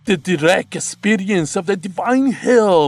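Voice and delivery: high, loud amplified sermon of sacrifice; cult priest crying out. A narrator's reading. Masked priest addressing worshippers, loud amplified cry. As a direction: preach to the crowd like a demonic high priest. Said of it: "the man on the stage cried".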